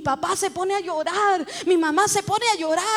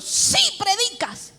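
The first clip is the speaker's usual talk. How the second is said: slow, high, firm contradiction; insist, losing patience; annoyed insistence; 5 semitones higher, slower than usual. Retold or imitated. God correcting her in the vision, annoyed insistence. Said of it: "Ya molesto".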